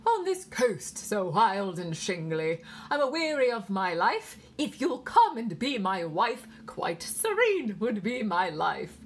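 loud, slow English nurse reciting; pure English accent. A narrator's reading. Nurse reciting verse to little girl, English accent. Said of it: "the nurse went on".

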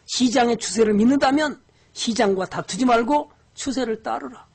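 ordinary talk, nothing marked

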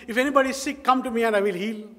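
lightly acted public offer; mock news announcement. Preacher imagines a good news item, mock announcement. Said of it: "Have you ever seen a good news saying".

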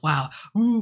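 high, loud whooping; crowd cheering. Retold or imitated. The crowd reacting to Andrew Garfield, loud whoop. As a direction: cheer like a whole theater.

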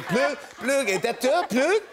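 high, pleading "plug, plug"; a lost tourist begging a clerk; desperate tourist. Retold or imitated. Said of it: "I'm going".

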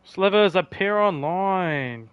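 calling out. Real, not acted. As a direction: call the teammate's name. Calling a teammate in game.

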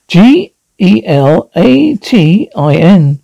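slow, spaced-out letters; deliberate spelling. Acted. Solicitor spells out the acronym.

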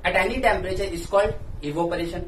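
slow, word by word, so students can write it down; slow dictation. Shown as a demonstration. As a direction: dictate each word clearly for notes. Dictating a definition slowly.

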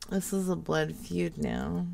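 low, very soft mock man. Prank caller tries out a man voice, low and soft. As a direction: drop it low and quiet like a man. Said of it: "Should I do my man voice?".

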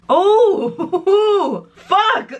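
high squealing laugh through the burn; pained laughter. Real, not acted. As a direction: laugh helplessly at the pain. Burning mouth, laughing in pain.

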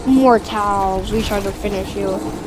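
evil villain gloat. Pretend. Playing villain Thanos gloating.

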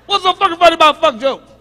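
hammed-up fury at the crowd; mock outraged yell. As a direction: yell it like you're offended.

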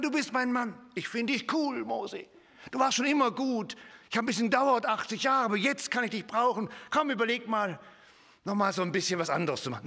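a lightly voiced buddy-God, breezy and quick; mock chummy God. Preacher mocking a pally God talking to Moses, breezy. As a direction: tease the cosy version. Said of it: "Wir dachten, Gott würde sagen".

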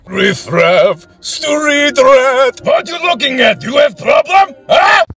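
put-on Russian accent. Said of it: "Russian guy who sings in his car".

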